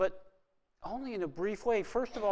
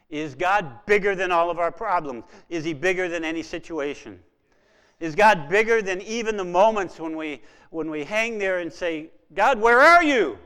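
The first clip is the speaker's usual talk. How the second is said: building to a cry; 3 semitones higher, 12 dB louder than usual. Real, not acted. Preacher asking the congregation whether God is bigger, crying out. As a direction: build to the anguished God, where are you.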